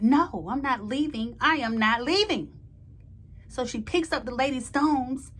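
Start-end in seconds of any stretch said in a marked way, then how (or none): 0.0-2.5 stubborn, loud no; defiant refusal. Retold or imitated. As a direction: dig in and refuse to go. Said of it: "Raquel was like".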